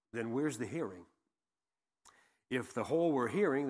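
measured, emphatic Bible reading; scripture reading. Acted. Preacher reading verse twelve to the congregation, measured and emphatic. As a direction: read it out with weighted key phrases and pauses.

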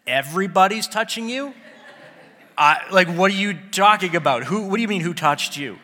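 loud, exasperated disbelief with a laugh; incredulous Peter. Acted. Peter to Jesus, baffled and exasperated by the question. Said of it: "Can you imagine Peter's tone of voice".

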